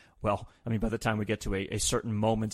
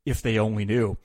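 Jim Ross impression; 8 semitones higher than usual. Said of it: "Jim Ross piggybacks on that by saying, quote".

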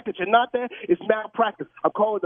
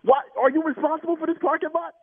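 angry interrogation. Real, not acted. Angry questioning of manager.

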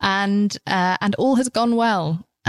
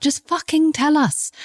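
angry; 9 semitones higher than usual. Real, not acted. Angry rant about celebrity honesty.

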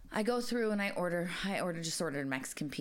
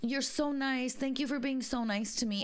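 put-on grateful old lady; 6 semitones higher than usual. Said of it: "she was like".

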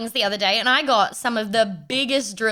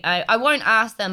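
ordinary delivery

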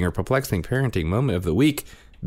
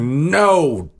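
put-on toddler's no; 10 semitones higher, 7 dB louder than usual. Dad voicing daughter refusing him.

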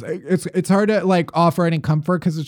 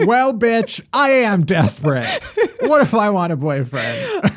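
laughing quote; 4 semitones higher than usual. Retold or imitated. To co-host, quoting the caller while laughing. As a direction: read the caller's line while cracking up.

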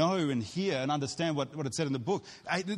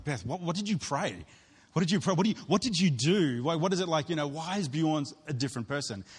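raised, louder eager asking; eager questioning; 3 semitones higher, 3 dB louder than usual. Retold or imitated. Churchgoers pressing his wife, louder and eager. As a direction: pepper her with curious questions.

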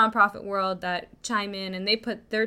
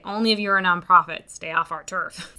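dismissive nonprofits; 5 dB louder than usual. Retold or imitated. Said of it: "the nonprofits roll their eyes and say".

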